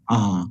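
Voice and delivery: "ah" held as the short slender Irish A; a low, isolated ah sound. Shown as a demonstration. Teacher isolating the slender A sound for students. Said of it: "the slender sound of the Irish A".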